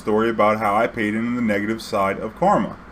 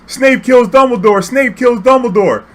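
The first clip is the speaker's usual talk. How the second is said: high, drawn-out full-volume yell; yelling out the car; 14 semitones higher, 10 dB louder than usual. Retold or imitated. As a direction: shout the spoiler to a whole crowd. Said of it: "he yelled out the car".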